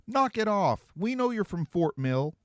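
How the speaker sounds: high, loud shout at the shadows; calling back to the fake-accent teen, annoyed and loud. A narrator's reading. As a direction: yell it into the dark, fed up.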